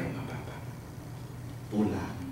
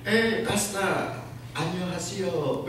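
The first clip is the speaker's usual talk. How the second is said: very slow, high, drawn-out Korean hello; imitating the greeting; 10 semitones higher, 3 dB louder, much slower than usual. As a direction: stretch the greeting warmly. Korean pastor greeting voiced.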